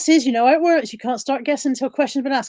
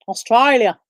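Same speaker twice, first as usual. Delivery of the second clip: mock accent; 3 dB louder, slower than usual. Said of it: "She didn't say it like that".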